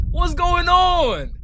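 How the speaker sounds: high, drawn-out incredulous question; mock bewilderment. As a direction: stretch it out in high disbelief. Mocking the freedom-fight tone.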